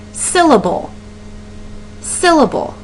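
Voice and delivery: Syllable, said with each syllable sounded out; spelling out the breaks in Syllable; syllable said slowly. Shown as a demonstration. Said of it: "How many different breaks in the word do you hear?".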